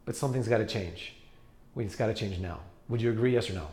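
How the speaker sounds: level with the client as an equal; equal, friendly appeal. Retold or imitated. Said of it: "allowing people to make their own decision".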